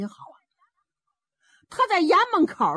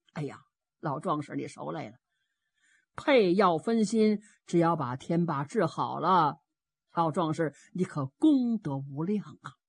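lower, measured voice of authority; grateful official; 3 semitones lower than usual. Acted. Lord Shi thanks the old warrior, low and measured. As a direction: thank him gravely, pitched down.

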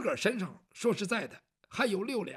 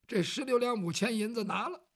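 plain reading voice

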